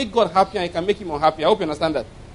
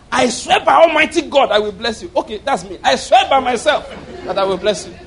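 voicing God's oath; 4 semitones higher, 4 dB louder than usual. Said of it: "So he said".

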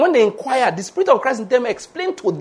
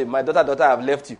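voice of God; 7 semitones lower, faster than usual. Retold or imitated. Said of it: "What if I heard".

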